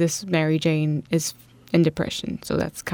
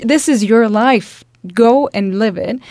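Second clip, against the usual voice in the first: louder, urging declaration; rally yourself with full power; powerful voice; 2 semitones higher, 6 dB louder than usual. Retold or imitated. Cheering herself on with a loud, powerful push. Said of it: "this very powerful voice".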